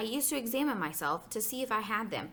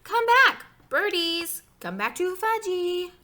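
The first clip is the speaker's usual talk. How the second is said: put-on very high, loud little-kid yell; shrieky small-child holler; screaming toddler; 10 semitones higher, 8 dB louder, slower than usual. A narrator's reading. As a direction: scream after escaping birds. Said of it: "was screaming".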